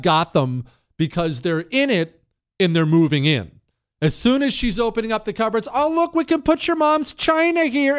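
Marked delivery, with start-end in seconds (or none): 5.7-8.0 much higher, delighted wife's voice; excited wife. Retold or imitated. A wife opening cupboards in the RV she loves, high and delighted. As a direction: gush like a wife already moving in.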